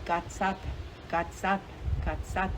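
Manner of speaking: Gatsat said softly, a hard g and clipped final t, three times over; showing how to say the name Gatsat; Gatsat demonstrated. Shown as a demonstration. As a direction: repeat Gatsat as a lesson. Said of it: "Remember how to say it".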